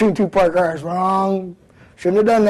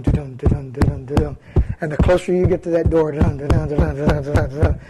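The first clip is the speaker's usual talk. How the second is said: heartbeat sound; 4 semitones lower than usual. Retold or imitated. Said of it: "Your heart's going".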